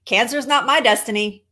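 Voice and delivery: emphatic catchphrase, leaning on "my"; measured, punched declaration of "Cancer's not my destiny"; Rosette. Retold or imitated. Speaker showing how a friend says it, emphatic imitation. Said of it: "She says".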